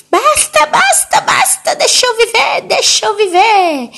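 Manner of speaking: very high, loud shrieking that cuts in; acted hysteria. Grandmother cutting off her daughter's plea, hysterical acted shrieking. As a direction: interrupt with hammed-up frantic screeching. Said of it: "ela viu uma histeria".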